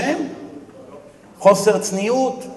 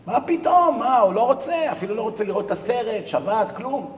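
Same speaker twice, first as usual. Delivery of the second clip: high-pitched disbelieving protest, easing off; mock indignation; 5 semitones higher than usual. Wife complains to rabbi about stubborn husband, indignant. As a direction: play the scandalized complainer.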